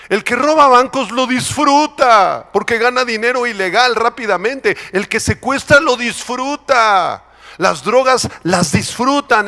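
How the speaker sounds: high, impassioned denunciation; heated pulpit warning, pitched high; fiery preaching. Real, not acted. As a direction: preach it with mounting force. Preacher denounces sin at full force.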